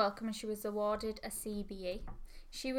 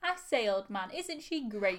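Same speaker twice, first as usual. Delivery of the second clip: posh 1930s crowd banter; old-timey newsreel voice; 4 dB louder than usual. Acted. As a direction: play a jolly old-fashioned Englishman. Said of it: "our impression of the great song".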